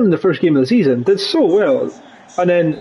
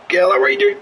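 much higher angry yell at the screen; exasperated shout; much faster than usual. Real, not acted. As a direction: blast the player for a blunder. Shouting at player mid-play.

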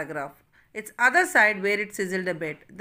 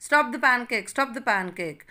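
shouting; 4 semitones higher, 4 dB louder than usual. Acted. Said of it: "here the mother is shouting".

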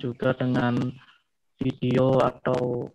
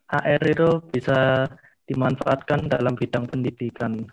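louder on request. Real, not acted. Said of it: "yang keras".

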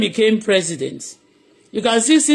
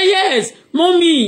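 put-on higher, sweet child's reply to mommy; daughter answering; 8 semitones higher, 3 dB louder, much slower than usual. Daughter answers her mother, a higher eager reply. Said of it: "He said".

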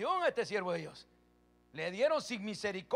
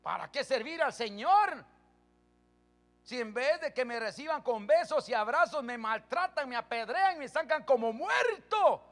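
imagined complaint of Paul; 3 semitones higher, 4 dB louder than usual. Pretend. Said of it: "ahí bien hubiera dicho él".

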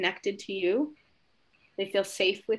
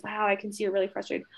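quick validation; faster than usual. Retold or imitated. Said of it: "I've done it before and it's".

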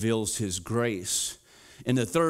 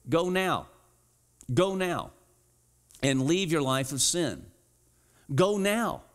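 urgent command; 4 semitones higher than usual. Acted. Quoting Jesus urging the woman.

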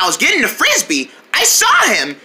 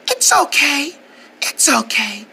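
soothing. Acted. Soothing the hurt bird.

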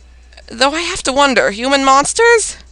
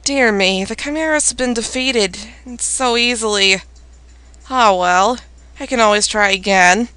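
lower, softer villainous voice; evil villain voice; 4 semitones lower, 5 dB quieter than usual. Acted. Villain shrugging off the Chimeras' defeat, evil voice. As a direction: play the villain, low and unbothered. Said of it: "I'm gonna put an evil voice for this".

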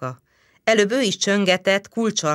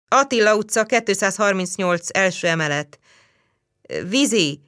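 official report; 4 semitones higher than usual. Acted. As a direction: report to the superior. Policeman reporting by phone.

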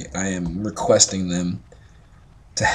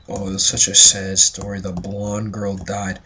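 mocking viewers. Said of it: "I know what you're all saying".

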